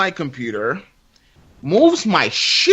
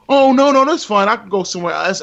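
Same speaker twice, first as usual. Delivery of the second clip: mock gracious refusal; 4 semitones higher, 4 dB louder, faster than usual. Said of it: "you could have been like".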